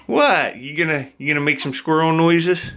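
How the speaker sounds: high, sing-song coaxing. Real, not acted. Owner coaxing his squirrel to chatter, high baby talk.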